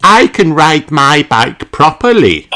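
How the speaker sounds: put-on giddy little girl boasting; proud. A narrator's reading. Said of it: "shouts Peppa".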